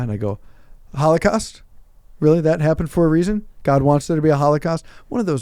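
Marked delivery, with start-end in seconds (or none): 0.9-4.8 smart aleck. Retold or imitated. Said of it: "smart aleck high school things".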